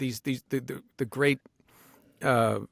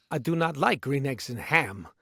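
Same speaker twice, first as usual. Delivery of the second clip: put-on reading voice.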